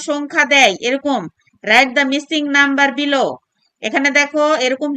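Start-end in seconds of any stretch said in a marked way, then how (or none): 1.6-3.3 very slow, word by word; slow dictation. Shown as a demonstration. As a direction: read it out slowly for the class. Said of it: "reads instruction slowly".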